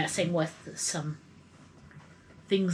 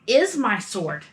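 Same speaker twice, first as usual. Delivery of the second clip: louder, higher nervous insisting; flustered loud in-character; 6 semitones higher, 7 dB louder, much slower than usual. Acted. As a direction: insist a bit too loudly it's hers. Player answers officer in character.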